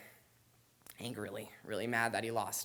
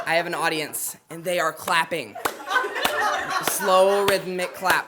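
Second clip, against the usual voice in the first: raised, excited telling over a laughing crowd; loud over laughter; 5 semitones higher, 11 dB louder than usual. Real, not acted. Storyteller at the slam, shouting over laughter. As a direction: shout the scene over the room.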